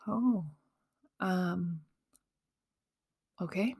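breathless, stunned whisper. Retold or imitated. Taking in the news, stunned whisper. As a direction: barely voice it, in shock.

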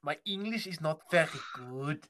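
hammed-up German learner of English; mock German accent. Learner asking co-host for help, mock German accent. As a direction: labour through it in a fake German accent. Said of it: "you do not sound Deutsche".

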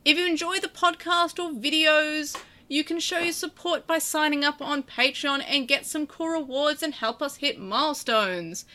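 lightly hammed-up sales pitch; salesman voice. Host reading the thanks, slipping into a salesman manner. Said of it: "I don't know why I'm talking like this".

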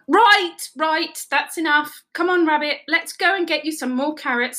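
brisk coaxing, starting loud; firm intervention. A narrator's reading. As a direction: step in and end the squabble. Teddy breaks up the quarrel.

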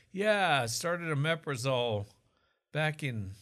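a light Oklahoma twang on the patient's words; Okie accent. Retold or imitated. Doctor quoting a patient's history, mild Okie accent. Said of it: "I have an accent suddenly".

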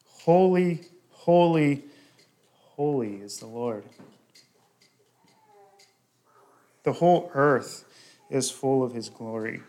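proclaimed praise. Acted. Preacher reading the angels' cry of praise, proclaiming. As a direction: ring out the holy, holy, then calm.

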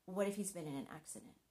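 fast, worried rush of words; racing fretful what-if; anxious worry. Retold or imitated. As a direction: spiral into panic quickly. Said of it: "I start thinking".

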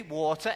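"water" with a crisp t and no final r; British pronunciation. Retold or imitated. Preacher asks Americans for water, British "water". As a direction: repeat "water" in plain British speech. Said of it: "I ask for water".

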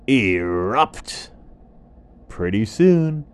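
a fussy bird passing on news; creepy vulture croak. Acted. Vulture warns of eruption.

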